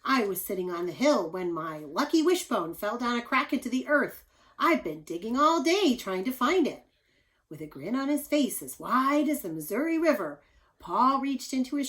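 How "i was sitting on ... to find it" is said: a hint of the giantess. Giantess explaining her lost wishbone, lightly voiced. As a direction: tell it with mild eagerness. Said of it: "the gigantic woman said".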